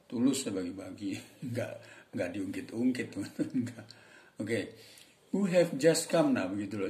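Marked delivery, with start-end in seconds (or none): 5.3-6.4 slow, high, louder English demo; English example phrase. Shown as a demonstration. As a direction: say the phrase slowly as a model. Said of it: "Itu kan pronunciation".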